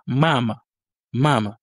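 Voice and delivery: mama in Russian, stress on the first A; Russian pronunciation. Shown as a demonstration. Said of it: "l'accent tonique est sur le".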